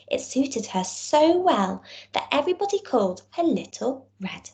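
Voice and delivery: put-on storybook reading for young children; story narration. A narrator's reading. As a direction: tell it like a bedtime tale to small kids. Teacher reads story to class.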